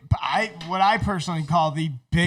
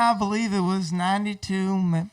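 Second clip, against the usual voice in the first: put-on Southern accent. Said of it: "he's even talks like".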